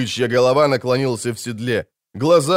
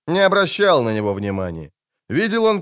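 usual speaking voice

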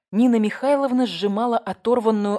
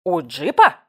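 gaping surprise; 8 dB louder than usual. A narrator's reading. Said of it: "разинул рот".

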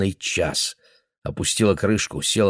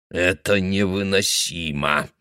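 put-on muttering old man; slower than usual. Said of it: "проговорил он".

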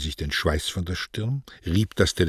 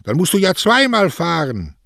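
high, loud protest; raised, carrying voice; shouting after someone; 9 semitones higher, 5 dB louder than usual. A narrator's reading. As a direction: shout it across the street. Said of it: "schrie Don Cosme".

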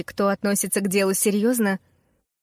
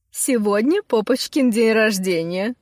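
silly naive tone. Acted. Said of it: "глупо наивным тоном".

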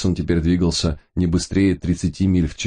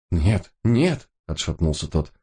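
frightened pleading; 7 semitones higher than usual. A narrator's reading. Terrified Gipa refuses the job.

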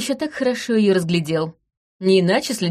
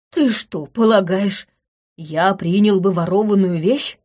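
indignant. Acted. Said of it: "возмутился Бесах".

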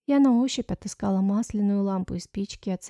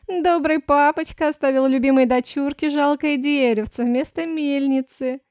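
higher, louder sneering voice; mocking; 5 semitones higher, 7 dB louder than usual. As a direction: taunt her spitefully. Clarisse mocks stepsister. (Клариса насмехается над сводной сестрой)

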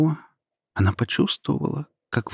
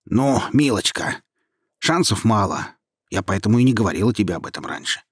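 snide. Acted. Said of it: "ехидно ответил голос".

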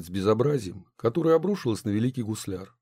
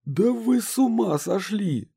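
shouted; 11 semitones higher, slower than usual. A narrator's reading. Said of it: "закричал Мощин".

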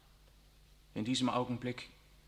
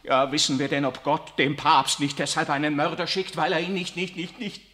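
anguished outburst; 3 semitones higher, 10 dB louder than usual. Acted. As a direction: tear the words out in despair. Riccardo erupts against the Pope.

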